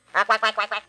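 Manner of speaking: quacking like a duck. Acted.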